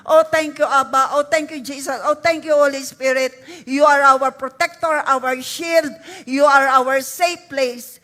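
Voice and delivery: loud, fervent thanksgiving to God; loud prayer. Acted. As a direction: cry out praise at full force. Prays aloud with the congregation. (malakas at taimtim na papuri sa Diyos)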